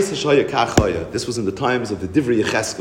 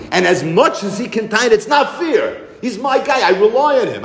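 higher voice with a laugh in it; complaining master; 9 semitones higher than usual. Retold or imitated. Master complains about losing his slave, higher, half-laughing. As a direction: whine that it's not fair, half-laughing.

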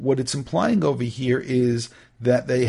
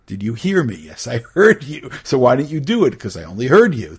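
louder mock argument between parent and kid; acted parent and child; 5 dB louder than usual. Teacher acting out a parent scolding and a kid talking back, louder. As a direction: play both sides of the quarrel.

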